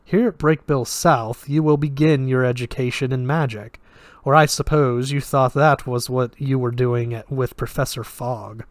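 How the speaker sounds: put-on flat, lightly Russian-accented voice; detached, with a hint of Russian; slight Russian accent. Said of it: "slight Russian accent".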